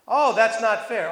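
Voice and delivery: imitating a listener crying unfair; mock complaint. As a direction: whine it like a sulking worker. Mimicking a complaining worker.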